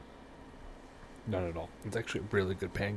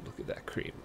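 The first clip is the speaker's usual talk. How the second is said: whispering; 7 dB quieter than usual. Real, not acted. Marvelling at cream.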